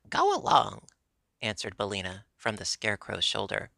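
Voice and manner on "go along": higher, louder brush-off; defiant retort. A narrator's reading. Hen answers the threatening king, defiant. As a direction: toss it back, raised in pitch and volume.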